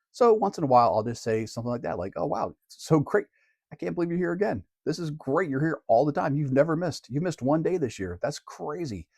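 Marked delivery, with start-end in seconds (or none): 2.2-9.1 enthusiastic praise. Retold or imitated. Teacher praising steady attendance.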